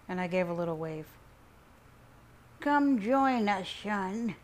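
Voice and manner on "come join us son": slow, higher, drawn-out invitation; chiming grandpa. A narrator's reading. Grandpa and dad call him to the van, chiming. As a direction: call him over loudly, stretching the words. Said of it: "chimed Grandpa Charles and my dad".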